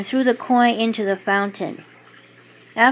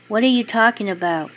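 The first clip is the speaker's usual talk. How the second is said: nervous; faster than usual. Acted. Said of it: "Doris sounded nervous".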